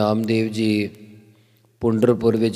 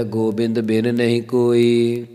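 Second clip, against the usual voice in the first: scripture recitation. Acted. Reciting Gurbani line in katha. (ਹੌਲੀ ਸ਼ਰਧਾ ਭਰਿਆ ਪਾਠ)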